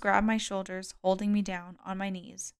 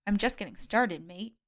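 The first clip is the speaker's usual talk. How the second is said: grim. Acted. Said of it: "he said grimly".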